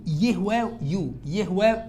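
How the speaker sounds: "يه واو يو" broken slowly into y plus oo; sounding out YU. Shown as a demonstration. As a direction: spell out the glide in "يه واو يو". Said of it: "لو نطقته".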